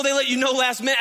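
ordinary talk

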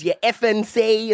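slow, broad Australian drawl as the speaker copies them; playful Australian accent impression; mock Aussie accent. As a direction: lay on the Australian accent, imitating the brothers. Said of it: "in our accent. And in our voice".

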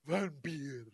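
low, quiet stagey vampire; Dracula. Acted. Showing how the vampire stares at camera, low and theatrical. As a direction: intone it low with dramatic pauses. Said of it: "and he's like".

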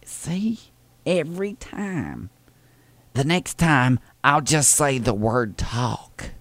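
put-on Southern old lady voice; sweet old lady caller, fussy and polite. Prank caller playing Thelma to the postal clerk, sweet old lady voice.

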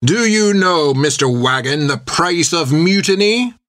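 slow, menacing ship captain; a hint of a cold captain; stern captain. A narrator's reading.

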